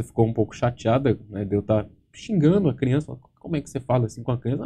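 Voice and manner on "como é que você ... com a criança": soft, quick reproach; hushed fast telling-off; wife scolding. Retold or imitated. Ex-wife scolding him for cursing at the child, soft quick reproach.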